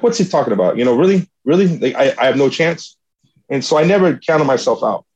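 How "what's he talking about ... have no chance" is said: mildly indignant retold disbelief; incredulous protest. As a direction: replay a touch of scoffing disbelief. Retelling his defiant reaction driving home.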